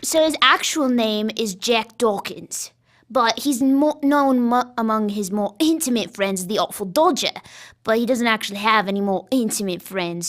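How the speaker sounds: put-on British stage accent for the Artful Dodger. Shown as a demonstration. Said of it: "I was showing you the accent".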